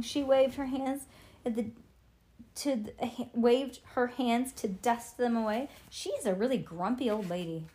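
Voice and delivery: ordinary delivery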